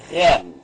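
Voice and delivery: "rem" set apart as one firm syllable; syllable read out. Shown as a demonstration. Teacher reading the first syllable to learners, sounded out. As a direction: read "rem" out slowly and distinctly, alone. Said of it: "Aqui nós temos a primeira sílaba".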